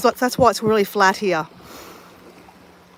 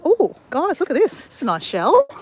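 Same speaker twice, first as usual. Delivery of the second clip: excited; 5 semitones higher than usual. Real, not acted. Finds a nice shell.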